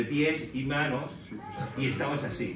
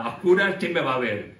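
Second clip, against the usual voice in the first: louder, carefree singing spirit; nobody can see, so let loose; carefree abandon; 7 dB louder than usual. Pretend. Prisoners singing in the dark without caring, carefree loud. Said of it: "ya no les importaba nada".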